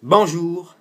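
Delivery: high, loud greeting to the phone; loud to Siri. Real, not acted. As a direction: speak up clearly for the voice assistant. Speaking a command to Siri.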